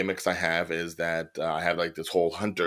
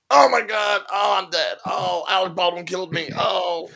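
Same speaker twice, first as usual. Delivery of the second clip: hammed-up dying victim; 12 semitones higher than usual. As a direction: overact getting shot. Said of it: "They're like".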